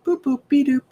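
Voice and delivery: high, playful cartoon catchphrase; Betty Boop. Medium passing on a grandmother's sign-off, imitated catchphrase. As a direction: lift it into a cute high sing-song. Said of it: "an old reference to Betty Boop".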